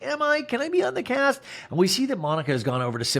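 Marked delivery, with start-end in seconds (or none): 0.0-1.4 much higher, fawning squeal; mock giddy. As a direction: gush like a starstruck fan. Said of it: "She's like".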